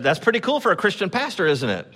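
proud quip. Retold or imitated. Pastor retells teasing the lighting guy, light proud quip. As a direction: tease the stranger with a proud grin. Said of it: "I said".

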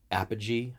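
"Apogee" as AP-uh-jee, stressed first syllable; tentative pronunciation. Real, not acted. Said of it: "I hope I'm saying this right".

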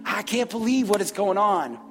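imitating a coworker with a southern drawl; Kurt's southern drawl. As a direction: put on a mock southern drawl. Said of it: "I do him in a southern drawl".

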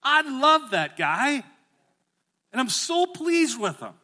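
put-on the heavenly Father beaming over his child. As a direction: proclaim fatherly pride. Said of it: "he looks down and goes".

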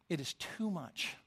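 soft, slowed repeat weighing "too"; quiet, slow emphasis. Retold or imitated. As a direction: let "too much" sink in quietly. Softer slower repeat of line.

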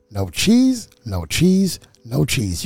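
"no cheese" three times, separately, stepping down in pitch; insistent triple repeat. Shown as a demonstration. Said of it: "You gotta say it three times".

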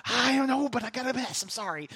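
lightly hammed-up helpless excuse; mock flustered apology. Pastor excusing himself for rushing, mock flustered.

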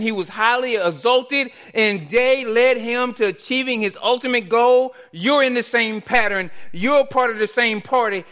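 rising, driving sermon delivery; preaching. Acted. Pastor urging the congregation to rejoice, preaching. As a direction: build the point like a pastor.

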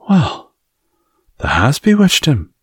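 puzzled maid voice; Martha voiced. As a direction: Martha the Yorkshire maid, amazed at the news. Martha's voice, reading aloud.

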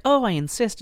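high, sugary insistence; oily guildmaster. Retold or imitated. Guildmaster insisting again to Clariel, high and sugary. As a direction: press her politely, fake sweet. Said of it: "and he's like".

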